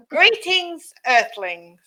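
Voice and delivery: put-on old speech synthesizer. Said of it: "Let's start again".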